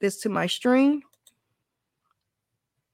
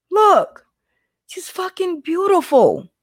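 excited; 8 semitones higher than usual. Real, not acted. Gushing over her photo on stream.

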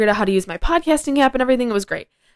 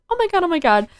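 much higher, hammed-up panicked repeat; mock panic; 10 semitones higher, faster than usual. Realizing she misspelled her podcast title, mock panic. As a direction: replay the panic, pitched way up.

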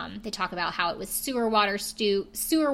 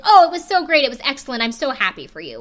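mock gushing, much higher and louder; over-the-top gushing; 5 semitones higher, 10 dB louder, faster than usual. Shown as a demonstration. Podcaster mocking Ralph's fake praise, over-the-top gushing. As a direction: ham up fake enthusiasm. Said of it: "which is, like, what Ralph did".

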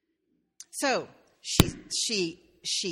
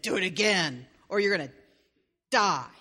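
king's threat; 5 dB louder than usual. Acted. King threatens again.

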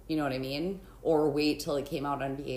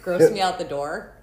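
louder, exaggerated Valley Girl; 8 dB louder than usual. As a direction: push the Valley Girl bit. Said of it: "Did you talk like a Valley Girl?".

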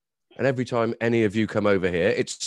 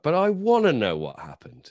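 imagined frustrated listener; 5 semitones higher, 3 dB louder than usual. Acted. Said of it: "anybody listening would be like".

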